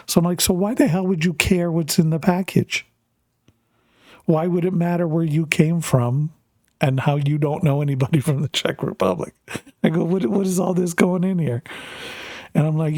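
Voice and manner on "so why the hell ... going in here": higher-pitched retold exasperation; incredulous dad demanding an explanation; mock interrogation, pitched up in disbelief; exasperated questioning.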